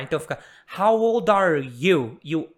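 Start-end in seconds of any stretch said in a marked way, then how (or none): 0.8-2.2 put-on loud, slow "old are" run together as "ol-dar"; linked D. Shown as a demonstration. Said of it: "o D de old já junta com o are". ("old are" emendado, alto e devagar)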